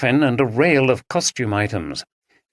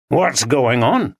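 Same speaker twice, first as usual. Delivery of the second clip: put-on Yorkshire accent; slower than usual. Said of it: "he asked in a Yorkshire accent".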